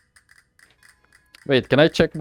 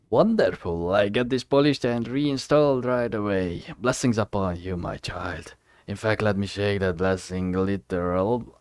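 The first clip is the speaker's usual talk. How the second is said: kindly priest; 2 semitones lower, 4 dB quieter than usual. Acted. Priest thanks the finder, soft lightly voiced blessing.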